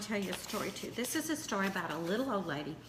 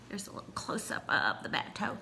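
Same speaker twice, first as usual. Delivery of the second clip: whisper; 3 semitones lower, 5 dB quieter than usual. Real, not acted. Whispered aside.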